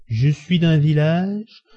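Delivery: halting, tipsy protest with long breaks and slow, stretched phrases; stammering. A narrator's reading. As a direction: falter between phrases, pitch swinging up, struggling to stay loyal. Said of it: "dit-il en balbutiant". (balbutiant, lent et entrecoupé)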